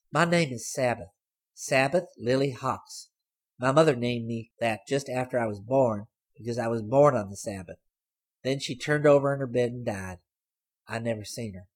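put-on sly girl. A narrator's reading. Girl surprising Hayes from the back seat, teasing. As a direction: pipe up high and pleased with herself.

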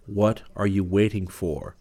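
slow, insistent voice from within; an urging voice inside your head; inner voice. Acted. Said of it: "It was a movement that spoke like a voice".

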